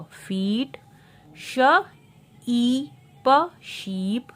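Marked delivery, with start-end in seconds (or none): 1.4-3.5 श, ई, प as high, separate sounds; sounding out. Shown as a demonstration. Teacher showing double E, sounding out श, ई, प. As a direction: lift each sound: श, long ई, प. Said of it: "ई का long sound".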